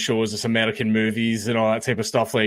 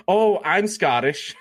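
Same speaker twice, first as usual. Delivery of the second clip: higher, drawn-out mock announcement; imitating gushing Americans; 4 semitones higher, slower than usual. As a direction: stretch it out as an eager American would. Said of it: "Americans are the ones that come up to me".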